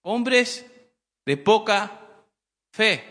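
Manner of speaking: lightly acted reprimand, spaced out for weight; mild retold rebuke. Jesus to his disciples in the boat, mildly scolding. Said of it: "Jesús los regañó por eso".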